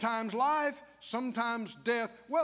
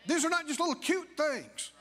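preaching shout; 4 semitones higher than usual. Real, not acted.

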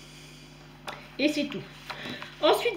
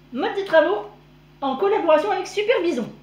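cracking, straining voice; 5 semitones higher, 3 dB louder than usual. Real, not acted. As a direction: voice breaking up. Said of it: "j'ai la voix qui part en cacahuète".

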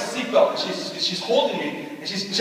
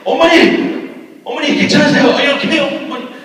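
higher and louder, calling out in alarm; panicked calling; 7 semitones higher, 6 dB louder, much faster than usual. Retold or imitated. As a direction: call to them in shock, oh my, are you okay. Panicked calling to family after crash.

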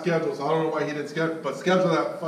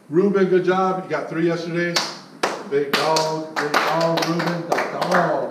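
louder hype praise for the team; hype shout-out; 6 dB louder, slower than usual. Real, not acted. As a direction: pump him up, slower on the last name.

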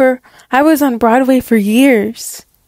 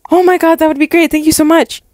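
thrilled; 4 semitones higher, faster than usual. Acted. Emma thrilled at the offer.

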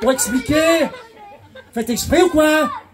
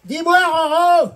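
put-on a light drunk voice; 5 semitones higher than usual. Two drunks on a railway.

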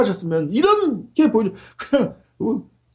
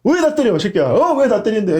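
mock donkey complaining; 3 semitones higher than usual. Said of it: "동물이 따지는 거 봤어요?".

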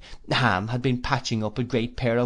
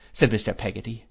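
plain reading voice

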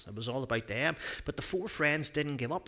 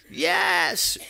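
very high, louder cheer of "Yes"; yelled; 8 dB louder than usual. A narrator's reading. Friends celebrating the healed man, triumphant yell. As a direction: shout it in triumph. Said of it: "yelled the friends".

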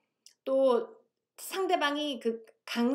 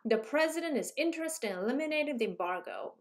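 "president", "interested", "eliminating" and "embargo" each hit hard, the other syllables rushed between them, said slowly; stress-timed rhythm; much slower than usual. Shown as a demonstration. Teacher shows students the four beats in "president", "interested", "eliminating", "embargo", slow and rhythmic. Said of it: "라는 단어를".

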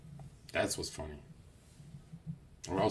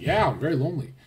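higher, hammed-up lonely whine; mock whiny confession; 7 semitones higher, 6 dB louder, faster than usual. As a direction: play pitiful for laughs. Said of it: "I'm like".

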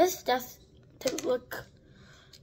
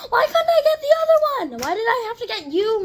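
much higher, fast, laughing whine; 7 semitones higher, 4 dB louder, faster than usual. Real, not acted. Wanting the other doll, laughing whine. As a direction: moan it through a laugh.

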